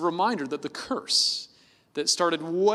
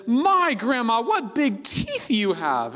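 lightly voiced girl, slow; a hint of a little girl; 6 semitones higher, 4 dB louder, much slower than usual. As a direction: gently mimic a wondering girl. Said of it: "Little Red Riding Hood says".

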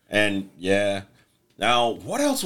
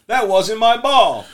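put-on kid voice; 10 semitones higher, 7 dB louder, slower than usual. Kid confessing in retold scene.

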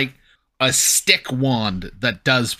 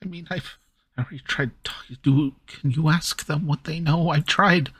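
Kenku voice; 5 semitones higher than usual. Acted. Kenku continues pleading.

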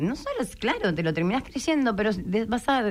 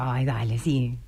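mock skeptical scoff; 2 semitones lower than usual. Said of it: "también decía".

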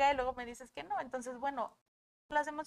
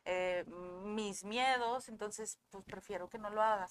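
subdued confession; 5 dB quieter than usual. Acted. Voices inner reason for stopping tears.

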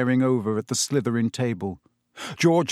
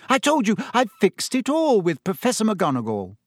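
high, exasperated insistence; snapped; 8 semitones higher than usual. A narrator's reading. Hermione repeating herself to Ron, snapping. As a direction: snap it to end the questioning. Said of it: "Hermione snapped".

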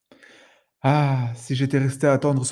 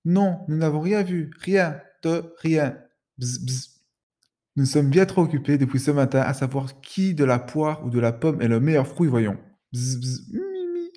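both bugs answering at once, busy and dismissive; two tiny insects in unison; 2 semitones higher than usual. Acted. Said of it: "lui répondent à l'unisson".

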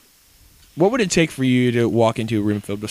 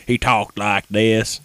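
Western drawl; much slower than usual. Retold or imitated. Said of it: "he had a Western act, like, voice".

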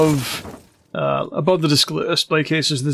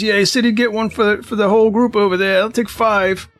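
smug half-orc; 6 semitones higher than usual. Acted. Skinny half-orc orders at counter.

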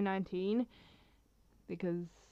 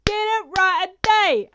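mock scolding; 11 semitones higher, 13 dB louder, much slower than usual. Mock scolding her younger self.

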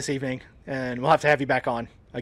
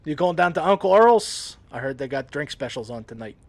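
Southern local; 4 dB louder than usual. Acted.

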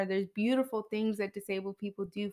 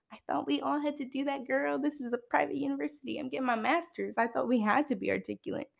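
higher, softer mock-innocent comeback; mock puzzled reply; 4 semitones higher, 3 dB quieter than usual. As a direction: play politely baffled by the praise, pitched up and light. Acted reply to being praised.

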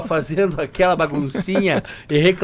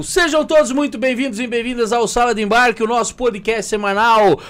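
upbeat podcast host opening, a touch higher; announcer intro; 4 semitones higher than usual. Shown as a demonstration. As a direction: open the show like a host. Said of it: "faz a cabeça de novo".

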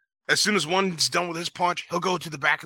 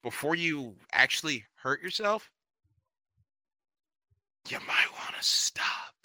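much softer, trailing into a whisper; calm quiet warning; 2 semitones lower, 5 dB quieter than usual. Retold or imitated. Warning the guy at the punching machine, calm and quiet. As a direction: ease the warning out gently. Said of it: "I just calmly say".

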